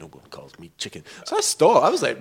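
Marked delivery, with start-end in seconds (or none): 0.0-1.0 low, soft hint of Marty McFly; lightly voiced Marty McFly quote; Marty McFly line. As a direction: drop into a quiet movie quote. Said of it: "It was like Marty McFly".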